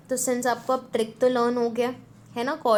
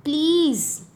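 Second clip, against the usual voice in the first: mock cry; 5 semitones higher, 4 dB louder than usual. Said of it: "Priya cried".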